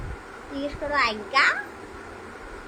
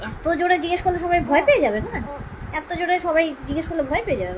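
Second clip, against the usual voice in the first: raised, higher teasing call; 5 semitones higher, faster than usual. Acted. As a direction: playfully boom the question. Mother teasing baby about loudness.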